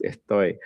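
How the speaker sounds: Estoy with the S lisped, almost a TH. Retold or imitated. Teacher imitates the student's lisped Estoy. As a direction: lisp the S in Estoy. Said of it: "it's almost like a lisp".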